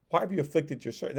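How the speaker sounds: a hint of an exasperated Moses griping; complaining. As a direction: whine it at God like a fed-up servant. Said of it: "Now he's complaining to God".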